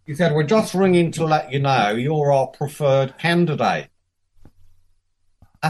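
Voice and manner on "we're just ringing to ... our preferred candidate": put-on raised-pitch Australian accent on a phone call; Tony Kruger. Australian boss telling candidate of job offer, Australian accent. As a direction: imitate an upbeat-pitched Australian recruiter. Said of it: "not doing a bad Australian accent".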